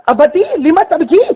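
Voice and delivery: high, slow daughter's voice; the young daughter pleading slowly; daughter's plea in Arabic. Retold or imitated. Daughter's Arabic words quoted. (بیٹی کی اونچی دھیمی فریاد)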